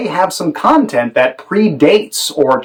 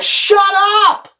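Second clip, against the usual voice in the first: much higher, sharp angry snap; snapping shut up. Shown as a demonstration. Director demonstrates the simplest subtext in an argument, snapped. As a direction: cut them off hard. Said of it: "Or something really simple like".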